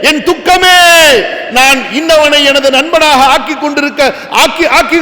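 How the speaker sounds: preacher acting out a sinner's regretful cry; declaimed outcry, a touch of anguish; mock wailing lament. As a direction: cry out the regret, stretching the last vowels. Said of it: "எப்படி கதறுவான்".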